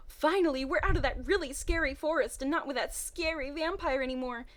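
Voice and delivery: relieved then suddenly worried; scared girl voice. Acted. Nicola calling for her missing twin, growing scared. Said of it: "ended that sentence scared".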